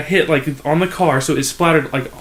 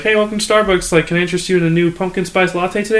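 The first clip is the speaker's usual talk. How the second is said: mock customer-service greeting, pitched up; drive-thru greeter; 6 semitones higher than usual. Barista greets a drive-thru customer, mock service voice. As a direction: recite a barista's scripted welcome.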